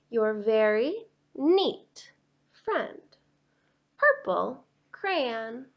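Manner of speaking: lightly voiced neat-freak crayon, exasperated; a hint of a prim, fed-up crayon; fussy Purple Crayon. Purple Crayon scolding Duncan about messy coloring, exasperated.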